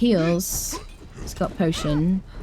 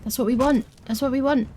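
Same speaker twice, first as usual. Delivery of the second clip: excited; 8 semitones higher, faster than usual. Real, not acted. Eager for the bladesmith.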